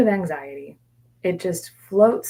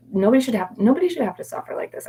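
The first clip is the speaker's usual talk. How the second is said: despairing inner voice; 7 semitones higher, faster than usual. Retold or imitated. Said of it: "I would tell myself".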